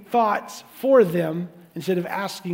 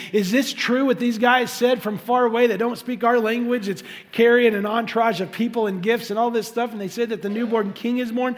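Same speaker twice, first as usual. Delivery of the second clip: louder, higher, alarmed questioning; freaking out; 4 semitones higher, 4 dB louder than usual. Retold or imitated. Herod interrogating religious leaders, loudly alarmed. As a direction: grill them like a panicking king. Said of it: "and he's freaking out".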